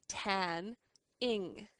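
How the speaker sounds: slow syllable split tan, ing. Shown as a demonstration. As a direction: sound out tan and ing apart. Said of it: "just have T A N N".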